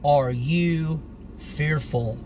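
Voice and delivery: 1 calm rebuke. Acted. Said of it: "said to them".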